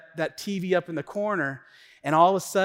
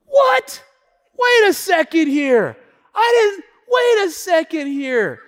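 loud, high indignant outburst; hammed-up high shouting; outraged wife; 10 semitones higher, 10 dB louder than usual. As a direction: imitate an upset wife yelling in disbelief. Acts out wife's outraged outburst.

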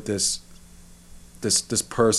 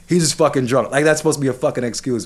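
higher, indignant mock repeat; 3 semitones higher than usual. Man venting about excuses for a slur, indignant. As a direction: throw the excuse back with scorn. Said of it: "I hate when they fucking say that".

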